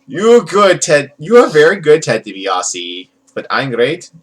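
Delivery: lightly camp wrestler promo; mock boast with a hint of Valley Girl; Iron Sheik as Valley Girl. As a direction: start bright-pitched, then sink into an offhand threat. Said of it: "doing Iron Sheik as a Valley Girl".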